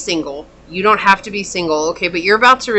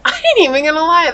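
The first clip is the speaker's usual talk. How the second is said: laughing repeat; 9 semitones higher, 3 dB louder, faster than usual. Real, not acted.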